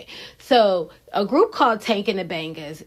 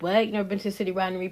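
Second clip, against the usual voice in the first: mock surprise; much faster than usual. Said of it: "some of y'all's like".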